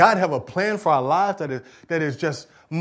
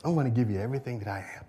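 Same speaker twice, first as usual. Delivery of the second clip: surrender prayer; 3 semitones lower than usual. Acted. Believer's quiet surrender prayer.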